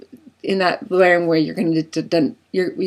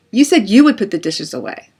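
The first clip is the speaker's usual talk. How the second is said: blaming retort; 3 semitones higher, 4 dB louder than usual. Acted. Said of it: "point the other finger".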